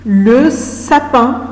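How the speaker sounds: "Le sapin" stretched very slowly; slow drawn-out. Shown as a demonstration. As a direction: draw out "Le sapin" for the class. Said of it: "c'est quoi le sapin". ("Le sapin" dit très lentement)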